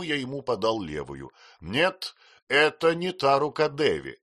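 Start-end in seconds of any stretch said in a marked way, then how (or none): 1.6-4.2 with a laugh. A narrator's reading. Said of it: "со смехом заметил джентльмен".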